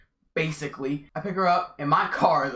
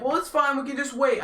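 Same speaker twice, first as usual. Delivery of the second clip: imitating date; 8 semitones higher than usual. His date answering.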